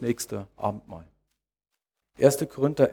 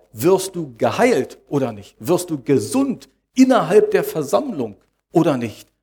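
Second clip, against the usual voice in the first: "geheilt" and "gesund" punched out as the key words; emphatic questions landing on "geheilt" and "gesund"; stress on GEHEILT and GESUND; 2 semitones higher, 4 dB louder than usual. Real, not acted. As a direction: lean hard on "geheilt", then on "gesund". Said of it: "Die Betonung liegt darauf".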